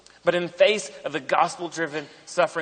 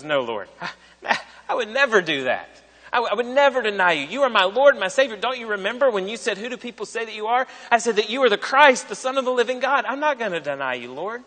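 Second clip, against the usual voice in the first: fast, earnest protest, lightly voiced; lightly acted Peter, swelling with pride and hurried; 4 semitones higher than usual. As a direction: puff up and insist you'd never deny him. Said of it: "just kind of bulks up and goes".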